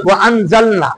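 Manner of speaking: ওয়া, then আনজালনা with its hamza sounded; don't merge ওয়া into the first vowel of আনজালনা; hamza kept. Shown as a demonstration. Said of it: "পড়বে না এটা". (ওয়া আনজালনা-তে হামজা ঠিক রেখে পড়া)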